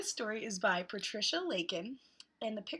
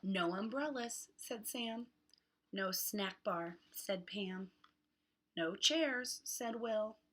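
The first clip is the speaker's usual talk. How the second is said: hot; much slower than usual. Acted. Reads picture book to children.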